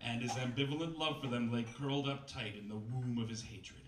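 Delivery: lightly overwrought novel narration, slowing on big lines; dramatic story reading. Acted. Comedian reads a bad novel to the crowd, mock-dramatic narration. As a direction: read the purple prose with mock gravity.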